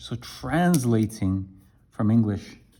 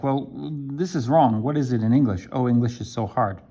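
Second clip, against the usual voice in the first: mild frustrated learner; faster than usual. Retold or imitated. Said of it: "You're like".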